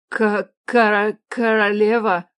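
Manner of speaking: slow, terrified stammer breaking up the word; frightened stuttering. A narrator's reading. Frightened village woman addressing the queen, stammering. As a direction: stumble over the word in fear. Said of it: "женщина начала заикаться".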